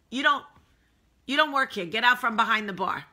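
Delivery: put-on loud, high, bossy Northern accent. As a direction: imitate a Northerner throwing someone out. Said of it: "I like to do a northern accent".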